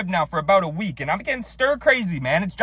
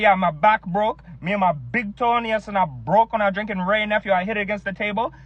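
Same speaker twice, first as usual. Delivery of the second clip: put-on Jamaican accent. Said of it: "what's up with Jamaicans".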